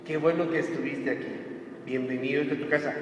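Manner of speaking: low, soft, reassuring welcome; softly spoken, kindly encouragement; encouraging welcome. Acted. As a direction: welcome them gently, offering help. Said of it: "anímale".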